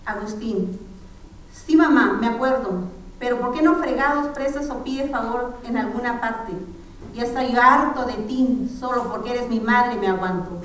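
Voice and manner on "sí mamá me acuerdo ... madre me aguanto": angry son. Acted. Son telling his mother he is fed up, angry and loud.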